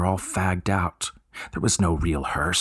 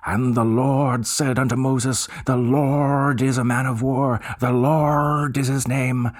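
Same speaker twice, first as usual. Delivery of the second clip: higher, louder, slow pulpit bellow; bellowing preacher; 6 semitones higher, 4 dB louder, slower than usual. Acted. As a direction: boom it out like a minister in full cry. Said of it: "when he bellowed".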